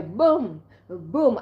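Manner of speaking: imitating the drum. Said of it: "the beat of the African drum".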